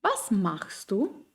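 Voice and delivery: slow rising Was machst du; question melody. Shown as a demonstration. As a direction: stress on Was, rising up at the end. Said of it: "Wie zum Beispiel".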